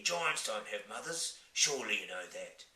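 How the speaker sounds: giant voice. Acted. Giant explains.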